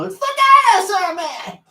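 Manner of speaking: high, loud announcing cry; dinosaur man voice. Acted. YouTube host introducing himself, high dinosaur man shout. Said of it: "You doing that voice?".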